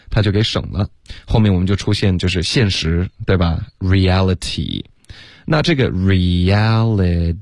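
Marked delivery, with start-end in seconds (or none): 3.8-4.8 "Reality" with a crisp T in the last syllable; clear T. Shown as a demonstration. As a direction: say "Reality" with a true t sound before the final vowel. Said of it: "特的音我们会浊化成一个的".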